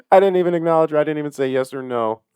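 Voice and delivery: talking through laughter; giggling while talking; laughing. Real, not acted.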